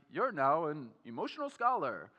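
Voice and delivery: a light, hammed-up British accent that slides toward Australian; bad British accent. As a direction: put on a half-hearted posh British accent for a joke. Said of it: "My wife told me not to do that, uh, British, uh, accent. It sounds more Australian".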